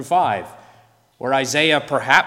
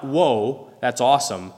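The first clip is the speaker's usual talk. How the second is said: casual mock woe; 2 semitones lower than usual. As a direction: toss it off like good news.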